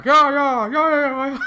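very high, loud eager yeahs; high cartoon voice cheering along; squeaky excited Randy. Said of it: "Randy's the only one going".

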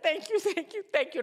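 breathless thanks. Retold or imitated. Grateful woman to the prophet.

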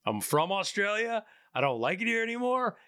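lightly voiced fed-up father, pitch climbing; a hint of a restless dad announcing he's leaving; dad quitting America with the kids, mildly mocked; mock Australian dad. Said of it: "And he's like".

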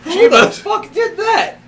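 high, slow, laughing yell; mock indignant shout. Joking friend re-enacts being startled, shouting through laughter. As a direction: bellow as if someone just grabbed you. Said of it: "I was like".

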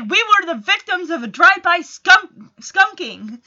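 put-on kid's voice for Max. Max telling DJ about the skunk, in a lightly voiced boy's tone. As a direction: play Max as a dramatic little boy. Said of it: "And Max is like".

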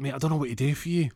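high, fast put-on voice; helpless panic. Friend facing a gunshot wound, high flustered voice.

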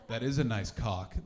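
imitating an angry-yet-amused accent, low and loud; mock-stern with amusement underneath; half angry, half amused impression. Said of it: "both angry and amused".

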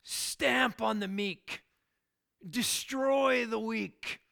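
slow, mock ruthless boss voice; a hint of a cold corporate boss laying down the rule. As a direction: play the heartless businessman for effect. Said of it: "corporate America says".

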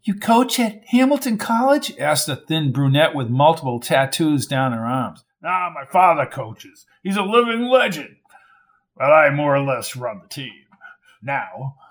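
lightly voiced loudmouth boasting; a hint of a drunk show-off; boastful barfly bragging to the crowd; blustering drunk braggart. A narrator's reading. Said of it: "voice sounded like a speaker on overload".

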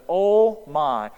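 imagined repentant cry, loud; broken sinner. Retold or imitated. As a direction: cry it out on your knees. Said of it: "should have hit the ground and said".

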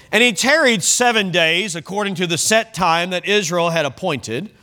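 public pulpit reading; scripture reading. Acted. Preacher reading of Saul's wait to the church, declamatory reading. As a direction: read the verse aloud to a congregation.

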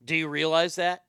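a hint of a grumbly old commentator; lightly voiced Andy Rooney rant. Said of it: "in my best Andy Rooney impersonation".

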